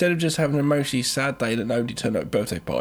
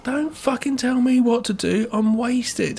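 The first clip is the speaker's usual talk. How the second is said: mock drunk mum; 6 semitones higher than usual. Drunk mum voiced higher.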